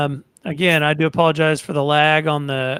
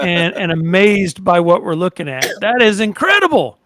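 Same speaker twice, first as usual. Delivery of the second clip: excited; 6 dB louder than usual. Real, not acted. Host gushing over boat pictures.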